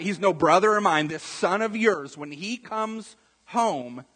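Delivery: loud, indignant disowning; angry brother. Acted. Angry brother complaining to his father about the returning son, emphatic and indignant. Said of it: "The brother's so mad".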